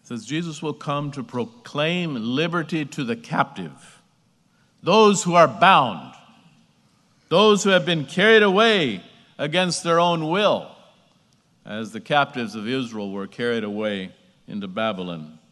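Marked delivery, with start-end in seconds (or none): 4.8-10.7 emphatic preaching. Real, not acted.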